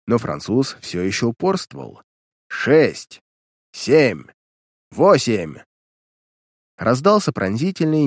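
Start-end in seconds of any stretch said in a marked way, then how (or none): 2.5-5.6 loud counting. A narrator's reading. Detective counts up electric shocks.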